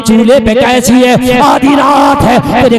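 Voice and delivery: loud, driving sermon storytelling; preaching at full force. Acted. Preacher telling the gathering about Umar, loud and driving.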